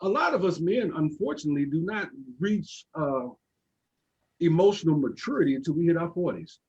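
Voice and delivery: talking around a toothpick; toothpick in mouth. Real, not acted. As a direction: toothpick in mouth, words a bit blocked. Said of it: "I'm sorry for talking with my toothpick in my mouth".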